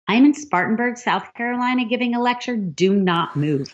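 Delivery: high, emphatic retold reply, slowing on the final order; acted-out excited urgency; urgent insistence. Retelling her urgent reply by phone.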